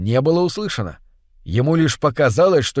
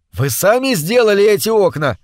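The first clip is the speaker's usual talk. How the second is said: shouting; 6 semitones higher, 4 dB louder than usual. Acted. Shouting over waterfall.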